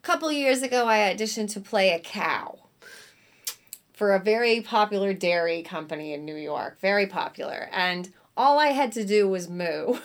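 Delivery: lightly imitated New York accent; Jessica Walters. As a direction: tell the anecdote with a hint of New York accent. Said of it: "she's got this heavy New York accent".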